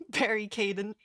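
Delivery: cracking up on the name Barry Caden; giggling the name, can't keep a straight face; laughing through the name. Real, not acted. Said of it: "I'll just do the worst voice".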